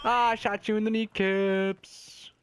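teasing. Real, not acted. Taunting a shot enemy.

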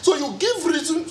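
real agitated argument, pitch climbing. Real, not acted. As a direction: let concern push your voice up. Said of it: "Sorry, I'm raising my voice".

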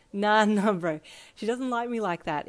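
brushing it off through a real chuckle; laughing it off. Acted. Ichiro laughing off the teasing about the girl. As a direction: laugh while you deny it. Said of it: "Ichiro laughed again".

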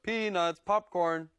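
a hint of a ballpark vendor's call. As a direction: lightly call out like a stadium hawker. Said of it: "the way people at a baseball game might call out".

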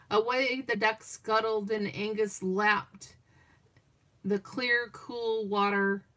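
unhurried picture-book reading; lingering storyteller read-aloud; story narration. Acted. Grandma reads the story on a call, calm storyteller voice.

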